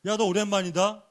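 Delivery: lightly acted rude familiarity; cheeky casual greeting. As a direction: imitate someone suddenly talking down to an elder. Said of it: "이렇게 함부로 그냥 반말을 막 하더래요".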